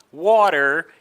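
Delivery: water with the T tapped like a quick R; slow water, tapping its T; flapped T. Shown as a demonstration. Teacher illustrating T between vowels, flapped T in water. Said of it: "sounds a little bit like an R".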